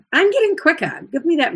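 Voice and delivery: bright playful boast, up high. Real, not acted. Teacher boasts playfully about speed.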